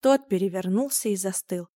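usual speaking voice

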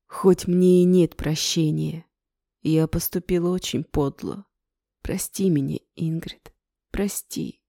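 a touch of tearful pleading; sobbing apology. Acted. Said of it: "Тело его затряслось в рыданиях".

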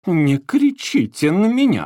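high, loud, slow angry retort; snapping back. A narrator's reading. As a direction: snap back, offended. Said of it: "огрызнулась Розочка". (огрызаясь, громко и зло)

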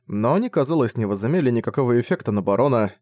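ordinary delivery

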